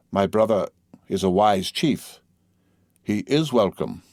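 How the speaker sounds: slow, measured stress, "He IS welcome"; deliberate and emphatic, leaning on "is" in "He is welcome"; strong emphasis. A narrator's reading. Delaware host repeating his welcome after the gifts, with slow emphasis on "is". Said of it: "repeated with strong emphasis the words".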